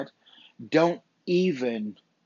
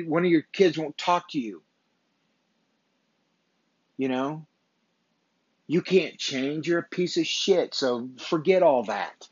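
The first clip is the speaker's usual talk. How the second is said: voicing the inner enemy; 2 semitones higher than usual. The enemy tearing him down, scornful and pushing. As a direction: berate yourself as the sneering enemy voice.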